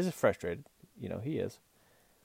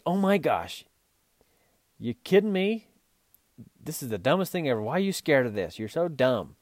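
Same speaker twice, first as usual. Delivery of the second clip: higher and louder, fed-up rant at the mule; exasperated scolding; 5 semitones higher, 3 dB louder than usual. Retold or imitated. Rider berating a spooked mule over a rock, exasperated higher scolding. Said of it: "have you ever been mad at your mule".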